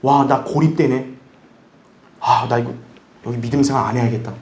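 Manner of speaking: low, subdued mutter to oneself; daunted. Acted. Isolated believer thinking of giving up, low and daunted. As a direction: sink into a discouraged low voice. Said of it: "두려운 거죠".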